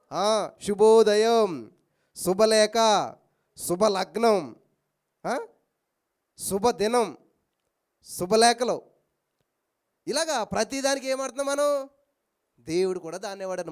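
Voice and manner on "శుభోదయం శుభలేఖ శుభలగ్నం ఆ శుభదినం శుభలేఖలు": drawn-out greeting. Shown as a demonstration. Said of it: "ఏంటది".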